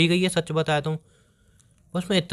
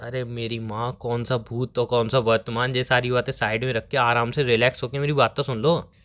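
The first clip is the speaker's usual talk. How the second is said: weary placating; 5 semitones lower than usual. Acted. Pleads with angry girlfriend to relax.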